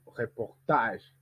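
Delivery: "reportage" slow, with misplaced stress; wrong stress, drawn out. Shown as a demonstration. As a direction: draw out "reportage" as a wrong example. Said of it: "on ne dit pas". (« reportage » lent, mal accentué)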